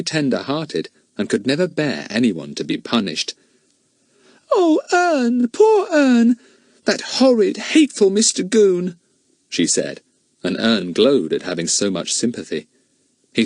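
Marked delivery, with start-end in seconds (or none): 4.5-9.0 put-on high girl's voice, near crying; a tearful little girl lashing out at Goon; high, tearful girl cries out against Mister Goon; Betts upset.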